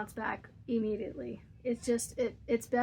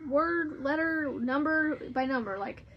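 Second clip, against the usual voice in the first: frustrated daughter; 4 semitones higher than usual. Retold or imitated. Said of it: "But she's like".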